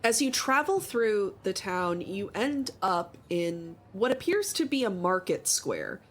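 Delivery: measured scene-setting narration; storyteller GM voice; game master narration. Acted. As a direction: paint the market for the players. GM describes market scene.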